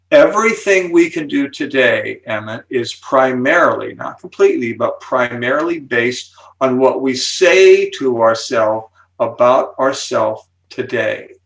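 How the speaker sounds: slow, deliberate stress on "today"; emphasis on today. Real, not acted. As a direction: set "today" apart with measured emphasis. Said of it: "Notice I'm emphasizing the word today".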